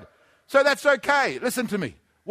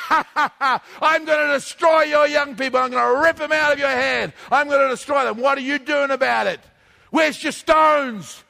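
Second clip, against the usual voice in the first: mocking Goliath; 4 semitones higher than usual. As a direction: taunt like a laughing giant. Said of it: "Your Goliath standing and laughing at you".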